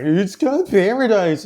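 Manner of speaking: slow, exaggerated generic Asian accent; mock Asian accent. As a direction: parrot his phrase in a jokey Asian accent. Teasing friend by echoing his phrase.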